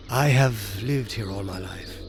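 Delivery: put-on a gentle old countryman sighing over his home; sighing old man. A narrator's reading. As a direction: let the line fall out on a wistful sigh. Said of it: "he said, with a sigh".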